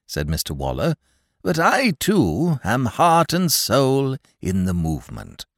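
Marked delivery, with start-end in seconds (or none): 1.4-5.4 eager halting. Acted. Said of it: "He stammered in his eagerness".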